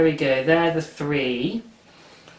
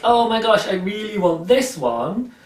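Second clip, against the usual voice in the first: mock breathless excitement; gushing fan; 6 semitones higher than usual. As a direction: squeal over the one you want. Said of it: "if you're like".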